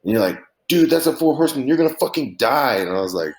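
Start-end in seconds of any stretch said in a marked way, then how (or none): 0.7-2.8 high-pitched imitation of an alarmed friend; mock alarmed warning. Teller mimics friend warning him about the shot, alarmed. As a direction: act out a friend's excited warning, voice raised high.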